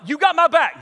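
punchy, high answer back; fired-up checking. Retold or imitated. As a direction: catch the buddy's excitement. Acts out the rousing back-and-forth.

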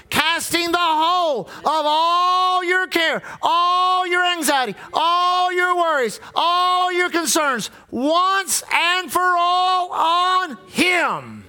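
fervent preaching. Real, not acted. Preaching climax, drawn out.

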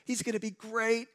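mock God voice. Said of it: "God did not look into the future and go".

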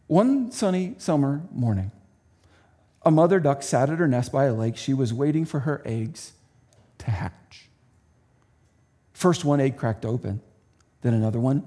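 lively storybook read; reading to children. Acted. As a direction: read it like bedtime for kids.

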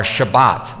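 "Shabbat" said shuh-BAHT, stress on the last syllable; Hebrew pronunciation. Shown as a demonstration. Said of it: "That's how they would say it".

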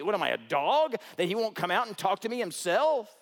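offended general, half-hearted; mock indignation. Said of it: "Naaman was ticked off about that".

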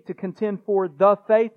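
loud, deliberate "the" set apart before "faith"; THE faith, with a firm beat on "the"; stress on THE. Shown as a demonstration. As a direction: punch "the" and keep "faith" strong. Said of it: "I'm emphasizing the word "the".

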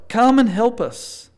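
loud, pleading cry to God; crying out for help. Acted. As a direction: call out loud and slow for help. Preacher voices people crying out.

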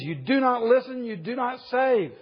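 prophet's complaint. Retold or imitated. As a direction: throw the reproach up to heaven. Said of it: "He says".

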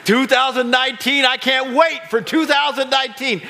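loud, laughing mock cheer; mock hopeful mantra. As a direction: ham up the empty promise, laughing. Mocking procrastinator mantra.

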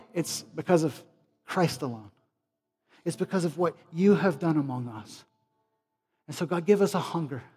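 measured petition in short phrases; pleading, then settling on the final phrase; earnest closing prayer. Real, not acted. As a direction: bring the prayer down to a sincere close. Closes the prayer.

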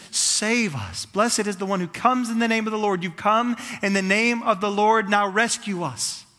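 mild building plea of a crowd; crying out. Retold or imitated. Oppressed people appealing to Jesus for rescue, crying out. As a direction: plead with growing urgency, drawing out the end. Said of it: "they're crying out".

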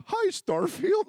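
high, loud and very slow pony voice; slow pony greeting. Pretend. Dad voicing a pony at play, slow high greeting. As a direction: drag out the hello like a toy pony.

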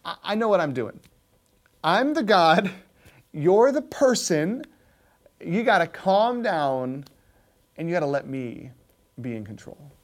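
a patient maker calming his pot; calm, firm potter. Retold or imitated. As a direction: settle the complaining pot down gently. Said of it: "And the potter said".

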